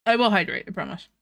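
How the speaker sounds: talking through a mouthful of food; words round a bite of McDonald's; mouth full. Real, not acted. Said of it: "talk with my mouth full".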